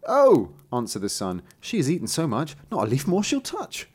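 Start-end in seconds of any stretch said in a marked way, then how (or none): 0.1-0.5 high, loud exclamation; answering son. Acted. Son answers the old tailor, high loud exclamation. 1.6-3.9 higher-pitched sing-along rhyme; son reciting. Acted. Son assures the tailor about the goat, raised reciting voice.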